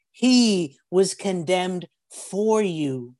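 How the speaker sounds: slow, weighty sermon delivery; emphatic preaching. Acted. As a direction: lay each word down for the congregation. Preacher presses the point slowly.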